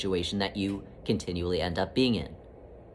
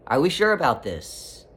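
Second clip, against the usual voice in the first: gentle questioning; 3 semitones higher than usual. Retold or imitated. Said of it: "It will simply ask".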